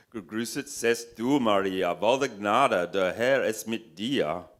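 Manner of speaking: loud, forceful German declamation; yelled German. A narrator's reading. Narrator yells a German prayer at the devil. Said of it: "yelling, fit to rouse the Nazis".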